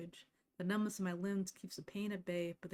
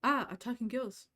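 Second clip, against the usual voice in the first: loud, high startled cry; sudden frightened yelp; startled shriek; 4 semitones higher, 8 dB louder than usual. Acted. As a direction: jump out of your skin at a ghost. Witch startled by ghost.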